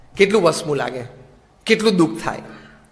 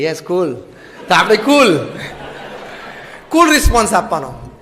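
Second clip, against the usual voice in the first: laughing; 2 semitones lower than usual. Real, not acted. Joking about teen slang.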